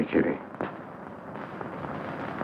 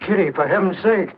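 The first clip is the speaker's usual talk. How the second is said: shocked plea; 13 semitones higher than usual. Acted. Suitor shocked by her cruelty.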